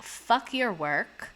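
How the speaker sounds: slow, dismissive mock man; mocking arrogant man. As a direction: drag it out like a smug guy. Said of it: "men will be like".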